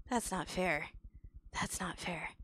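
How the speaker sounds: low, hushed protest; sulking protest. Real, not acted. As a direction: mutter it to yourself, sulking. Sulking repeat, then builds up.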